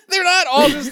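high giggling burst; laughing. Real, not acted. Cracking up over the Highlander mix-up, laughing. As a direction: crack up mid-sentence.

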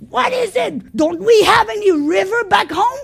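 an offended general blowing up; mock furious. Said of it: "ticked off and furious".

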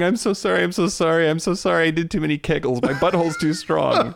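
hammed-up sobbing sorry; apologizing too much. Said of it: "their partner is, like, crying".

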